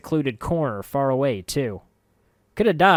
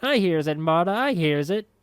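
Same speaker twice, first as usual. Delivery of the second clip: crone answering herself; 7 semitones higher, 4 dB louder than usual. A narrator's reading. Marta scrunched face answers.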